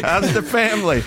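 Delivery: high, chummy backpedal; mock friendly small talk. Diner smoothing things over with waiter, mock friendly. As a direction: cover up with sugary, high-pitched politeness.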